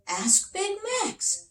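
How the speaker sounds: high, slow proud king; king's voice. Acted. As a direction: draw it out like a proud little king. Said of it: "said the king".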